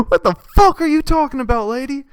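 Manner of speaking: high-pitched mock-outraged question; incredulous retort. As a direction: demand it in hammed-up bafflement.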